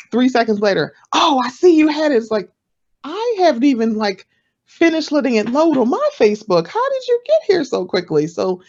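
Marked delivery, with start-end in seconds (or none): 1.1-2.2 high, loud pouncing 'oh'; mock over-eager. Eager collaborator three seconds later, mock over-eager. 3.0-8.3 high-pitched, incredulous protest; mock startled. Podcaster to a too-quick collaborator, mock startled.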